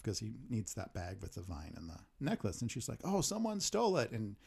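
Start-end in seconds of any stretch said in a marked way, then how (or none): 3.0-4.1 high-pitched retold dismay; mock dismay. Kate telling Luke about the stolen bag, mock dismay. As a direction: lift it high, lightly acting upset.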